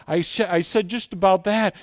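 normal talking voice

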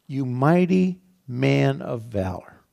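each word laid down slowly; slow, weighty proclamation. Acted. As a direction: announce it like a solemn title. God's greeting, slowed for weight.

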